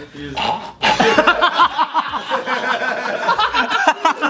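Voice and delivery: high laughing drowning sputter; mock drowning noise; drowning gurgle. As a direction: gurgle like going under while laughing. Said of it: "Do your best drowning impression".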